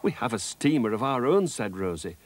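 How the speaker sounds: put-on gentle read-aloud to children; children's storybook reading with character lines; story narration. A narrator's reading. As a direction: tell it like a bedtime tale. Reads the Rosie and Jim story.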